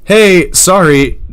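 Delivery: loud, slow sneering kiss-off; mock rude dismissal. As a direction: brush them off with fake sorry. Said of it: "that's the vibe I'm getting".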